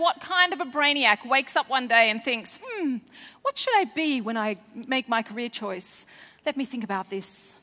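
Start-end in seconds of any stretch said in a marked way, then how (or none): 2.6-7.6 put-on scheming child-hater. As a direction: hiss the hatred of children like a storybook villain. Imagined child-hating teacher thinking.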